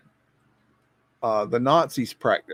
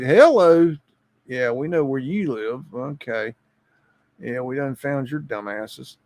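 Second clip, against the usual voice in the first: creepy voice impression; 3 dB louder than usual. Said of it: "I'm just saying his, his voice".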